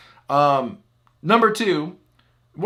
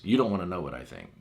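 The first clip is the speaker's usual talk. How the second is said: gruff brush-off; 3 semitones lower, faster than usual. Retold or imitated. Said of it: "his response was always".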